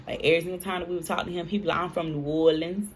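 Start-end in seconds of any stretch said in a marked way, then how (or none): 1.8-2.9 New Orleans twang, mimicked in retelling; New Orleans accent. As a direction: lightly put on a friend's New Orleans accent. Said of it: "he used to talk like that too".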